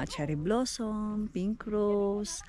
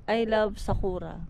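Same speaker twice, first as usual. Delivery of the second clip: Pinoy accent. Shown as a demonstration. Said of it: "Pinoy kayo, dapat".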